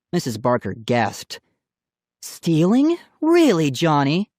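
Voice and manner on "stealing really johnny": shocked. A narrator's reading. Aunt shocked at theft.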